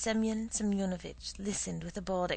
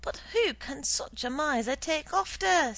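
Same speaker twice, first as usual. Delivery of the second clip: sarcastic aside; 8 semitones higher, 6 dB louder than usual. A narrator's reading. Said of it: "addressing the wall".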